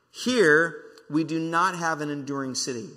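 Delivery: loud "here", pause, then measured words; slow emphatic reading. Real, not acted. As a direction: pound out the verse slowly for the congregation. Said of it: "I really wanna read this slow".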